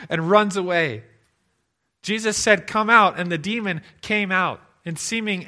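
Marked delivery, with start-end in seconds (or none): 2.6-3.2 firm command. Retold or imitated. Jesus commands the demon.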